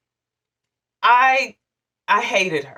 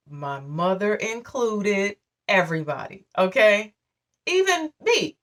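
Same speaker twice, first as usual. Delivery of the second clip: ordinary delivery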